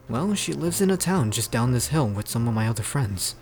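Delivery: low, steady explaining; deep character voice; deep-voiced Pierce. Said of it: "how deep the guy's voice is".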